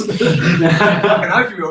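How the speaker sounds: laughing through the words, slow. Real, not acted. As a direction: chuckle it out at your own joke. Laughs at his own joke.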